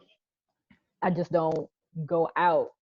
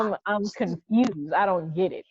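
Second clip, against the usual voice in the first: baffled protest; 2 semitones higher, 4 dB louder than usual. Retold or imitated. Retelling her reply when told she says I differently, confused. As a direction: retell being puzzled, stretching the words out.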